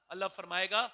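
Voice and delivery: ordinary talk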